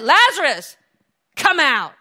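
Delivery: ringing call to the dead; forceful summons, strongly projected; loud command. Acted. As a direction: call him out with full authority. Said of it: "He commanded".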